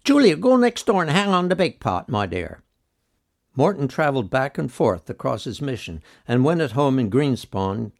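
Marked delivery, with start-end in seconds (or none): 0.0-2.6 high, loud startled exclamation; a sudden cry from a flustered lady. Retold or imitated. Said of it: "a local lady crying out".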